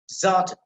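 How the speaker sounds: "Zert" punched alone; emphasized second syllable. Shown as a demonstration. Teacher isolating the stressed syllable, emphatic. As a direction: hit "Zert" as one strong beat. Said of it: "that will be emphasized".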